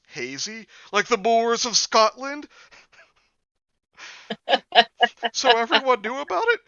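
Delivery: high, loud hammed-up Scottish groundskeeper; Willie Scottish accent. Reciting the Willie meme in a high, loud Scottish accent. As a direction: shout it like a wild Scottish groundskeeper. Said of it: "groundskeeper, Willie".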